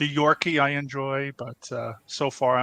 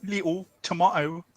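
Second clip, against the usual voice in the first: Cockney "little tomato", L dropped; higher put-on Cockney; Cockney accent; 4 semitones higher than usual. Shown as a demonstration. Host relishing dropped sounds for co-hosts, Cockney accent. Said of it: "you drop the L".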